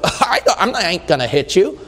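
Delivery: laughing refusal. Retold or imitated. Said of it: "I would go".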